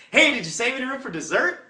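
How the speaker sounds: high, loud chirpy waitress greeting. Retold or imitated. Waitress upselling dessert to diners, high chirpy. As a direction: sing it out like a bubbly waitress. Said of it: "she's gonna say".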